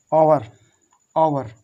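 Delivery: आवर said with no h at the start; silent h. Shown as a demonstration. Teacher models the word for learners, silent h in आवर. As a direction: say आवर opening straight on the vowel. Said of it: "वो हावर नहीं होता".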